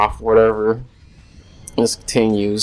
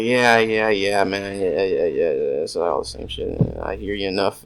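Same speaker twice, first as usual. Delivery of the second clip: dismissive. Retold or imitated. Brushing off repeated stories.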